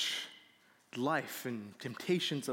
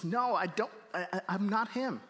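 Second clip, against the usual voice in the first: mildly angry, higher-pitched retort; a touch of anger, pitched up; angry denial; 5 semitones higher than usual. Retold or imitated. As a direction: act out a flustered, stammered denial. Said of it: "He gets angry".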